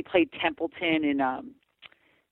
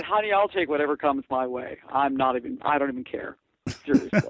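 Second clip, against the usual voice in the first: campy drag queen. Retold or imitated. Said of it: "I said".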